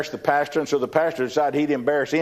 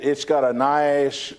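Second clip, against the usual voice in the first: ordinary talk, nothing marked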